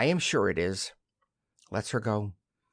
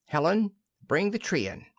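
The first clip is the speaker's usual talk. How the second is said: raised voice called toward the hall, pitched up; calling out; 5 semitones higher than usual. Acted. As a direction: call the maid from the next room. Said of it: "goes to the hall door and calls out".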